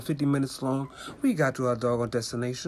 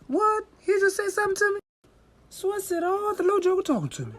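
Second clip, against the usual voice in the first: high, incredulous outburst; shocked disbelief. Real, not acted. Narrator reacting in disbelief to the little boy, shocked.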